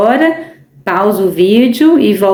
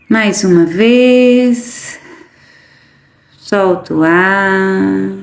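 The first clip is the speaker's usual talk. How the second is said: very slow, stretched-out breathing cues; guided meditation; much slower than usual. Acted. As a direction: draw the key words out long, pausing between phrases.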